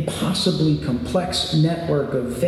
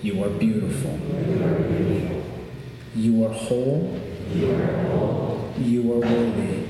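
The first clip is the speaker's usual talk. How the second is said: calm grounding exercise; 4 semitones lower than usual. Shown as a demonstration. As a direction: say each line gently to a neighbour. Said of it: "repeat these words".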